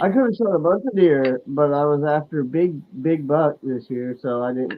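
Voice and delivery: muffled, hollow phone audio; muffled phone mic. Real, not acted. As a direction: sounds like talking from the bathroom. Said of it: "You sound all muffled".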